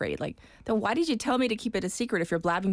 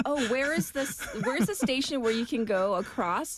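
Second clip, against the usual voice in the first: mild mock panic, pitched up; retold panic; 5 semitones higher, slower than usual. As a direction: act out a lost rider's fluster, lightly. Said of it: "I panic".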